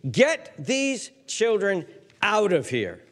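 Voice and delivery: high, loud exasperated outburst; indignant disciples. Acted. Disciples scolding the parents, exasperated and loud. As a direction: shoo the children away in annoyance. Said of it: "it's as if the disciples are saying".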